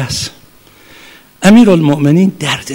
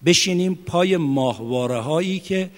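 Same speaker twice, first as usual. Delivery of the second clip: quiet earnest warning; 2 semitones lower, 9 dB quieter than usual. Real, not acted.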